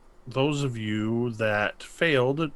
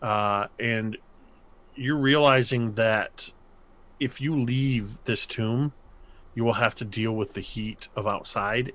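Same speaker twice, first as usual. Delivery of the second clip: game master narration. Acted. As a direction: draw them into the dread. GM describes dread slowly.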